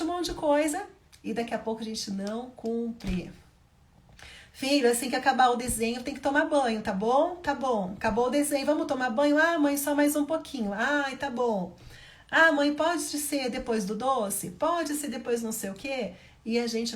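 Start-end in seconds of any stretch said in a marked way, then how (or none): 4.5-9.4 mother setting a deal. Acted. Mother bargaining over bath. 9.4-10.7 put-on whining child. Child whining for more time. 10.7-11.7 mother giving in. Acted. 12.3-16.1 put-on whining child. Child bargaining.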